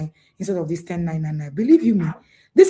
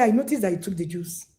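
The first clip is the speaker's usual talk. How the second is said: calm parent voice; 4 dB quieter than usual. Shown as a demonstration. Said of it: "why not say".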